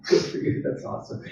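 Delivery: whispered sarcastic aside; a whispered, sarcastic good for you; mock whisper. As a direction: breathe it out like a snide aside. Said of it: "I'm like".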